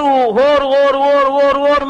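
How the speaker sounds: loud mock bawling of two babies; imitated wailing. Preacher imitating Sumitra's twins crying side by side, mock wailing. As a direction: imitate babies howling in one unbroken run. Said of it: "అని ఏడుస్తుండేవారు".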